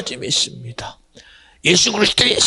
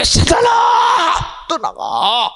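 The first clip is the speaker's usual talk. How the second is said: stern rebuke. Acted. The Lord rebuking his disciple before the others, crying shout. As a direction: drive the tempter away with a shout. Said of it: "꾸짖는 거요".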